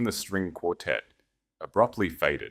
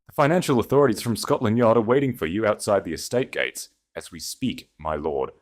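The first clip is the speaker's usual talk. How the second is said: louder, calm and unshaken; unmoved, projected; 4 semitones higher, 5 dB louder than usual. Acted. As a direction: state it coolly to the whole room. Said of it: "utterly unmoved by Julian's panic".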